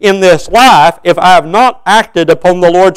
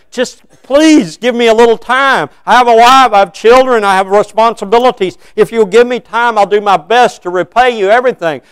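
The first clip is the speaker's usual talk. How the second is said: desperate pleading slave; 5 semitones higher than usual. Acted. Slave begging his lord to spare his family, raised desperate plea.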